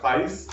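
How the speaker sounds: "face" with a wide Cockney glide, like "fice"; "face" with an open, gliding vowel. Shown as a demonstration. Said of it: "if you were a Cockney speaker".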